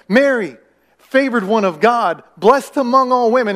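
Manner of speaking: a grand heavenly greeting, hammed up; booming angel proclamation.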